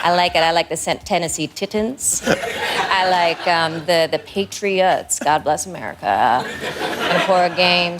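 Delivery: slow, halting, deliberately enunciated rambling; imitated laid-back talker. Demonstrating his manner on football, slow imitated drawl. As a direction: lean back and ramble slowly with odd pauses. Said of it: "this is what happens".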